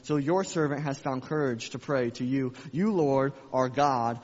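loud, proclaiming prayer; fervent scripture reading. Acted. Preacher reading David's prayer aloud to church, loud and fervent. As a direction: read it out like a bold prayer.

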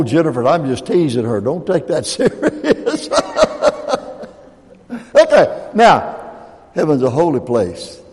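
usual speaking voice

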